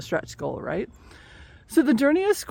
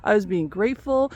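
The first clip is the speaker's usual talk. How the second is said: offended; 4 semitones higher than usual. Acted. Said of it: "Scorpio at first got mad".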